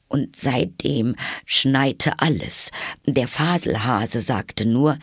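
slow, high, halting voice; nervous testimony. Acted. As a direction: testify timidly, drawing the words out. Frightened Hatter continues testimony.

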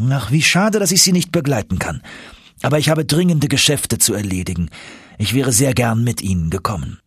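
mildly regretful, obliging professor; friendly Icelandic professor, regretful. Acted.

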